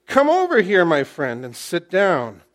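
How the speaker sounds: high, loud hail on over; calling over. Acted. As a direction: call him across the gate. Boaz calls a man over.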